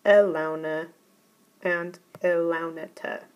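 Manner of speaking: elauna said E-lau-na, the accent on the first syllable; teacher models elauna with the stress on E; accented imperatives. Shown as a demonstration. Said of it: "and in the imperatives".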